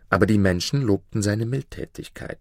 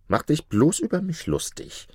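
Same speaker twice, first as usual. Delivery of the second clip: higher, tense mock hiss; 8 semitones higher than usual. A narrator's reading. Ali to Maruf, angry, pitched up. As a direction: spit it out in anger, pitched up. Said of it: "zischte er".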